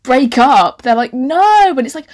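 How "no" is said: high, loud wail as the annoying friend; mock protest. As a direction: act out an indignant refusal.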